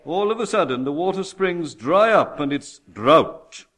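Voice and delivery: forceful, emphatic sermon delivery; preaching. Real, not acted. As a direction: preach it out, landing hard on key words.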